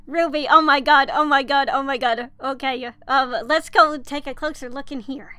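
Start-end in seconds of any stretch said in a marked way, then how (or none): 0.1-2.3 louder, breathless oh my god; real fangirl outburst; excited gushing. Real, not acted. Seeing Ruby's card.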